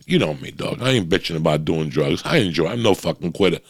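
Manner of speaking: normal talking voice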